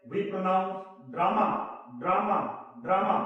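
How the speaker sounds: very slow, stretched-out "drama" with a long open "aa"; slow, stretched teaching demo of "drama"; drawn-out drama. Shown as a demonstration. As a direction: draw "drama" out slowly like a child pleading. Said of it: "ऐसा लगता है कि कोई बच्चा".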